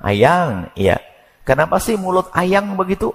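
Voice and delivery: sweet pet-name exchange with a sting; a husband and wife sweet-talking; sweet-talking couple. Retold or imitated. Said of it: "Pakai kalimat lembut".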